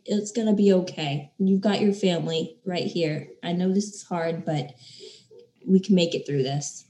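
soft, soothing comfort; quiet, tender consoling; gentle reassurance. Acted. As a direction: reassure them softly, as if holding them. Imagined comforting of upset girl.

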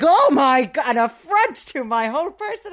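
high, loud mock-offended child; childish outrage. Recalling her childhood reaction to a light slap, high mock outrage. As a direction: squeal it like a wounded five-year-old. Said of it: "And I was like".

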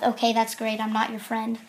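soft muttered retort; under the breath. Retold or imitated. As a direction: keep it down, barely meant to be heard. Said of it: "I say kind of under my breath".

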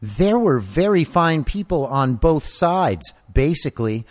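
put-on high whiny kid voice; small child voice. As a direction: whine like a spoiled child. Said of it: "that's the voice I'm gonna use".

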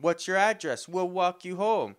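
high, loud fake helpfulness; imitating a threatening offer; mock menacing neighbor. Neighbor pressing a young man to be walked home.

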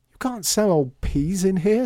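high, loud, indignant objection; child's protest. A narrator's reading. Lydia objecting to peas for sale, indignantly.

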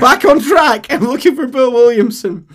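very loud, high, insistent; John refusing to engage; blunt cowboy again. Acted. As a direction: repeat it flatly, back on task. John repeats, back on track.

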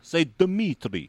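slow Russian accent with a heavy tongue; Russian accent, tongue feels too fat. Shown as a demonstration. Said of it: "in order to do a Russian accent".

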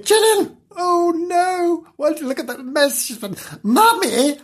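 high shrill cry for Mummy; calling out. Acted. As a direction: call out to Mummy, high and alarmed. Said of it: "she called".

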